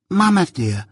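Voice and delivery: put-on high little-girl voice; timid small child with a lisp. A narrator's reading. Little Jane answering her scolding mamma, lisping. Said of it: "lisped the little girl".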